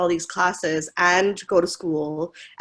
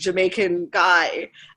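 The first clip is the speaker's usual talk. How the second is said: ordinary delivery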